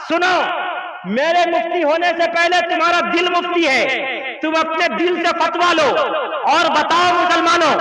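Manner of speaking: rising sermon cadence, hammering each line; preaching rebuke. Acted. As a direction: drive it home like a pulpit scolding. Preacher scolds the drunk man. (मंच से उपदेश देते हुए डांटना)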